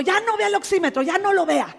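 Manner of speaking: a doctor's loud, high warning; doctor's firm order. Retold or imitated. Doctor tells the pastor to stop checking, loud order. Doctor voiced in her story.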